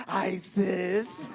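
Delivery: mock camp threat, rising at the end; campy boyfriend. Comic repeating boyfriend's threat, mock camp. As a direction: draw it out in an imitated camp voice. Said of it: "You can't even be scared at all gay ass like that".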